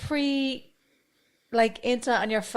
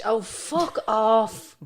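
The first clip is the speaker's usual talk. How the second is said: mock scorn; 4 dB louder, much slower than usual. Mocking exam overachievers.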